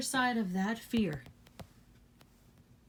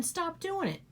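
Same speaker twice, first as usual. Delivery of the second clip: raised, forceful push on stop doing it; firm command; 9 semitones higher than usual. Real, not acted. To the viewers, a forceful raised command. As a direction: tell them straight, no excuses. Urging listeners to change.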